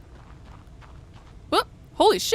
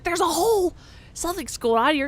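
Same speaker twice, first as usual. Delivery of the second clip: excited NPC; 6 semitones higher, 5 dB louder than usual. Acted. NPC warns about a hole.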